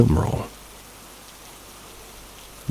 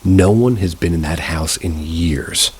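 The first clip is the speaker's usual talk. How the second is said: lightly voiced old man, slow and deliberate; a hint of an old man, drawn out; slow old neighbor; slower than usual. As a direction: lay each word down slowly, like the old neighbor. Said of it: "He said again".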